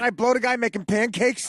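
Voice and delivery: giggling as he mocks the guy; laughing mock voice.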